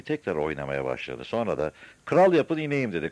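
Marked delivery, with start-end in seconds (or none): 2.0-2.9 high, loud opening burst; shouted demand. A narrator's reading. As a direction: yell your terms down from the roof. Madman shouts demand from roof.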